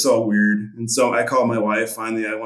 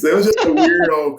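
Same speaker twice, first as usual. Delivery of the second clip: laughing; 7 semitones higher, 5 dB louder than usual. Real, not acted. Wraps up story laughing.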